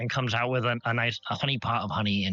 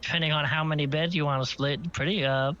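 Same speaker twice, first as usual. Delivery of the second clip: innkeeper; 4 semitones higher than usual. Acted. Innkeeper describes rooms to guests.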